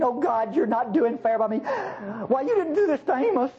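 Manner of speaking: lightly acted whiny protest; mock whining. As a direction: imitate a sulky grumbler protesting to God. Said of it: "whining and bellyaching".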